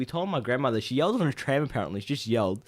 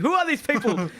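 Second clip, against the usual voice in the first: higher, louder puzzled grandma; imitating grandma; 9 semitones higher, 4 dB louder than usual. Grandma seeing strangers at the door, high puzzled. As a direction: play a confused old grandmother. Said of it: "She'd be like".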